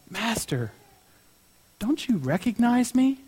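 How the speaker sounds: soft, understated tearful appeal; mildly acted hurt, voice kept soft; retold tearful plea. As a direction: plead quietly, as if just broken down. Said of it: "starts crying".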